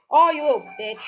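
loud irritated yell; angry shout. Real, not acted. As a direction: snap it at the enemy. Yelling at enemy.

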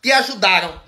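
lightly mocked air of obligation; imitated entitlement. Imitating someone who asked for money, mildly entitled. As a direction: quote the plea as if help were owed, rising on lama. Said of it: "um ar de obrigação".

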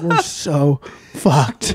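laughing doom. Retold or imitated. Bong found, doom.

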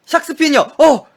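sudden high loud blurt; startled blurt. Real, not acted. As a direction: burst out the answer. Blurts wrong answer in memory game.

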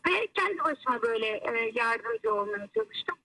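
over the phone. Real, not acted. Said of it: "hoparlöre aldım seni".

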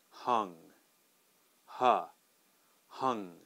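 "hung" and "huh" with flat uh vowel; model sound. Shown as a demonstration. Teacher isolates the uh vowel of "hung". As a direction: stress the uh in "hung". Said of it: "that's gonna be a uh sound".

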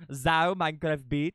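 "Zao" said as one word instead of X O; "Zao" run together, tune lifting at the end; imitating name reader. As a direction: mimic someone misreading X O as "Zao". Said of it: "he says Zao instead of X O".

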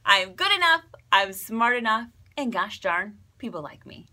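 lightly voiced earnest self-help guy; Stuart Smalley. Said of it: "Stuart Smalley have the best mantra".

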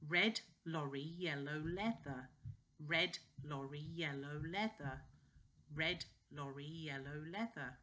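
careful "red lorry, yellow leather"; tongue twister. Shown as a demonstration. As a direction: switch cleanly from "lorry" to "leather". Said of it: "Then we do".

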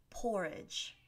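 "porridge" said alone with a soft fall; careful model "porridge", first syllable stressed; pronunciation demo. Shown as a demonstration. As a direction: repeat "porridge" clearly after spelling it. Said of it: "this word is pronounced".

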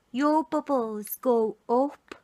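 slow Brummie sing-song, rising at the end; Brummie girl. Shown as a demonstration. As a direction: speak as a little Birmingham girl. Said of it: "if she was a Brummie girl, she'd say".

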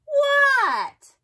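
jolted awake, squeak it out; squeaky Froggy. A narrator's reading. Froggy yelling back to his father, high and startled.

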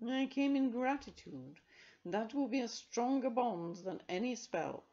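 slow, grateful cat. A narrator's reading. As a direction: speak like a proud grateful cat. Carbonel purring, grateful.

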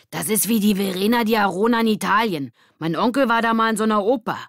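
put-on high, loud, rushing boy voice; eager boy. Mitch eagerly comparing it to Verona. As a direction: show off what you know.

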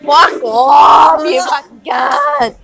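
shouted insult. Real, not acted. Mock fury at a friend.

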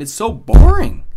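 high, slow, loud whine of boredom; whiny exasperation. Real, not acted. Complaining to viewers about boring characters, slow, high, whiny groan. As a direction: drag it out, fed up.

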